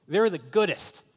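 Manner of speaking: hammed-up fan's retort, rising at the end. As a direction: play the fan defending his team. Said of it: "he's getting passionate about it".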